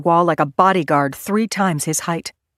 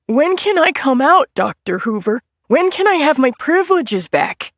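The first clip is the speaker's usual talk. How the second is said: pleading; 10 semitones higher, 5 dB louder than usual. A narrator's reading. Nettie pleading with Hoover.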